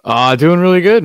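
hearty, loud and upbeat; loud greeting. Real, not acted. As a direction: boom out a cheerful hello. Upbeat reply to show greeting.

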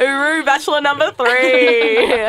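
slow, drawn-out teasing farewell; mock-fond, lingering send-off; playful send-off. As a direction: stretch out the goodbye in playful imitation. Playfully echoes bachelor's quirky farewell.

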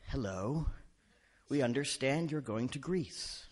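slow, measured reading of an official email; politely matter-of-fact official. Acted. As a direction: deliver grim warnings with mild politeness. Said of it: "you get these nice emails".

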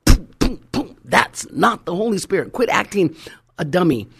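loud boom then scolding; preacher half-joking at showy believers, loud and scolding; mock rebuke. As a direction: snap them out of it with a mock rebuke. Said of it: "you just wanna slap 'em".

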